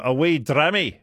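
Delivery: light, vague attempt at Scottish; Scottish accent. Shown as a demonstration. Radio host pondering words for a drink, tentative Scottish accent. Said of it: "vague attempt of doing a Scottish accent".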